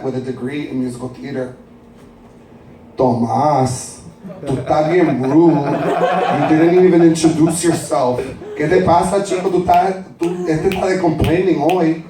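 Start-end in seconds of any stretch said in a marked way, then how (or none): 3.0-12.0 nagging mother teasing her son in Spanglish; Puerto Rican mother. Acted. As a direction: son hears his mother scold him in his head, lightly voiced. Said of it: "That's my mother, Maritza".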